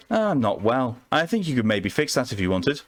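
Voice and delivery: a hint of a Southern charmer calling him formal; Southern belle accent. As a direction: play a coy Southern woman flirting with the doctor. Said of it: "God, I hate this accent".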